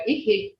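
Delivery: ihi said short, vowels cut brief. Shown as a demonstration. Teacher showing the word meaning husband, short ihi. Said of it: "ihi is short".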